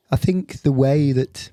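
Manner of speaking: slow, wondering presenter impression; Brian Cox. Explaining cake at a bake sale, Brian Cox impression. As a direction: muse slowly in character. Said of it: "Brian Cox hosting a community bake sale".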